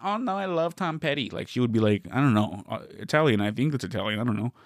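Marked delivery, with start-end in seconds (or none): 0.0-1.3 mock airy coworker. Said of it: "But she was like".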